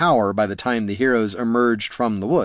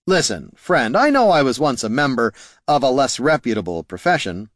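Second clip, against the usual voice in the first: smooth rogue voice; 2 semitones higher than usual. Acted. Haraldin smooth talk.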